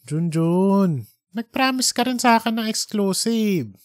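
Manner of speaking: barely held-back anger, pitched high; restrained anger. Acted. Editor holding in his anger at Junjun's broken promise. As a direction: bite back the temper while asking.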